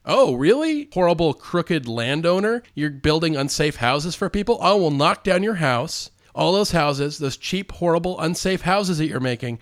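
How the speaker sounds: mock indignation. Superman threatens a crooked landowner, mock indignant. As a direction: take a crook to task, play-indignant.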